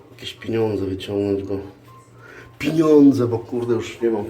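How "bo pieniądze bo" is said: normal talking voice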